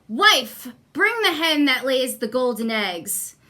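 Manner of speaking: commanding giant. Acted. Giant orders wife.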